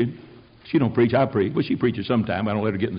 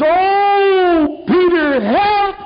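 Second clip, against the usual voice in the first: high, louder pleading cry; desperate cry; 13 semitones higher, 4 dB louder, much slower than usual. Acted. Crowd crying out to Peter, high desperate plea. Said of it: "their cry was".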